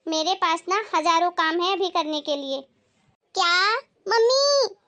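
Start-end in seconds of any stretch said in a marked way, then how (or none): 3.3-4.7 high, drawn-out indignant appeal; scandalised wail to mother; outraged protest. Acted. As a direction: stretch it out in offended disbelief. Daughter outraged at refusal, appeals to mother.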